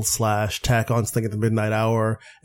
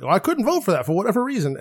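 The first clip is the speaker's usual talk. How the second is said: pitched-up dismissive mock quote; mocking Ted Cruz; 6 semitones higher than usual. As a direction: sneer it like a dodging senator. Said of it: "Ted Cruz recently was like".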